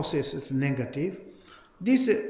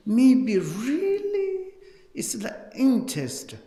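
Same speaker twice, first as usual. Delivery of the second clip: confiding whisper; 8 semitones higher, 3 dB louder, slower than usual. Real, not acted. Teacher drops to confiding tone.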